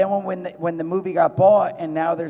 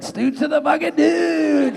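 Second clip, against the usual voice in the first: high, slow hammed-up shout; brandy-loosened yell; 11 semitones higher, 6 dB louder, slower than usual. Fired-up movie line after brandy, high hammy shout. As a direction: let it rip after a drink. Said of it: "And then I was like".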